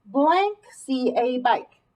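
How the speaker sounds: slow read with a pause at the blank; teacher prompts the class to fill the blank; slow prompting read. Shown as a demonstration. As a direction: leave the blank hanging for the class. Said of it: "What word would we use".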